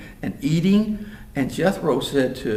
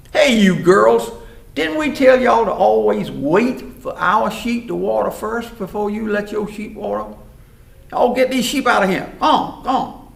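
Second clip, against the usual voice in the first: loud, high holler at rivals; bullying shout; 5 semitones higher, 8 dB louder than usual. Acted. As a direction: bellow bossy orders to shove them aside. Roughneck boys bullying the girls.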